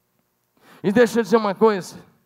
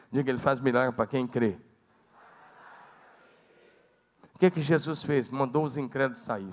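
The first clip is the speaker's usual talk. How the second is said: softer, lower intimate sermon voice; quiet preaching; 8 semitones lower, 7 dB quieter than usual. Acted. Preacher lowers voice to draw congregation close, softer. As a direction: draw them in with a hushed tone.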